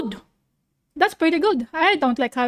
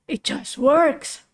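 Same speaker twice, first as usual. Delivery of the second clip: awed; slower than usual. Acted.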